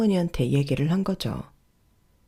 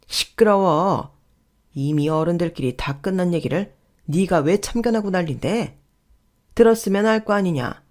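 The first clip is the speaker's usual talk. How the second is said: scolding rebuke. Acted. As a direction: shut the nephew up like an offended elder. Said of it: "남편은 호통치며". (어른이 조카를 호통치는 말투)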